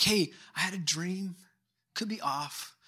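soft, tentative offering; gentle close friend. Acted. Close friend hesitantly bringing a dream, softly tentative. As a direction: broach it carefully and quietly, unsure. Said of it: "It would probably come from a really close friend".

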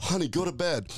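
a lightly voiced cartoon wife; mascot's wife. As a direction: call him to bed as his wife. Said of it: "his, like, Cologuard wife comes up".

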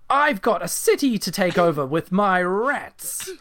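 hammed-up villain with no time to waste; impatient villain mayor.

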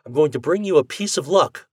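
mildly voiced cheerful suggestion; Ford voice. A narrator's reading. Ford promising.

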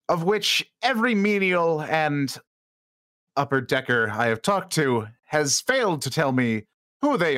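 slow, deliberate shipwide announcement; measured, authoritative captain on the ship's speakers; commanding captain's address. Acted. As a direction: lay down the law to the crew, unhurried. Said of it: "you are commanding, using your commanding presence".

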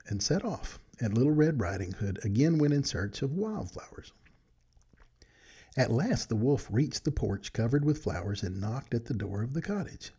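put-on gentle read-aloud storytelling for children; bedtime story narration. A narrator's reading. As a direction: read it like a good night story to friends.

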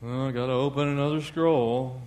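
mock-reluctant, lightly voiced grumble; Jesus. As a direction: lightly play someone burdened by a chore. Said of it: "can you imagine the Lord Jesus".

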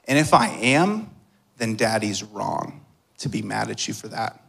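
gentle, fatherly reassurance; tender reassurance. Retold or imitated. Father kneeling to his worried son, tenderly reassuring. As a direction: softly comfort a worried child.

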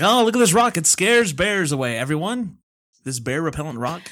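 a hint of a huckster selling junk; snake oil seller. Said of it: "Like, I have this rock".

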